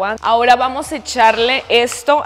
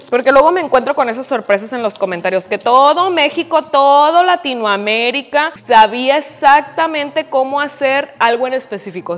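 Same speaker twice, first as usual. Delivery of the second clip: mock indignation; 3 semitones higher, 5 dB louder than usual. Real, not acted. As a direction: fake outrage at the comments. Ranting about commenters. (indignación fingida sobre los comentarios)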